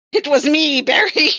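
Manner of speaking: high mock villain reveal; hammed-up villain gloating; theatrical villain reveal. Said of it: "dramatic villain monologue time".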